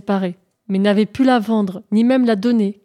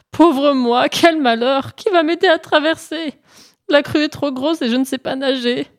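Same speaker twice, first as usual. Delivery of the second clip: lamentation; 6 semitones higher, 3 dB louder than usual. Acted. Lièvre se lamente au bord de la crue.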